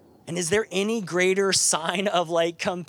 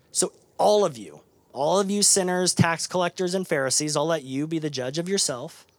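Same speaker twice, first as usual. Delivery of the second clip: calling out the crowd. Real, not acted. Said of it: "calling out the audience".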